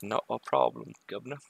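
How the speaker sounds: a clumsy mock Cockney, cheery to the chat; bad Cockney accent. Streamer fakes a Cockney reply to the London viewer. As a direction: tip the cap, Cockney style, badly. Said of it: "That's a terrible accent".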